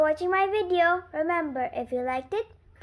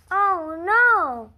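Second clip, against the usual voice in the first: alarmed; 4 semitones higher, 10 dB louder than usual. Acted. Gerald alarmed.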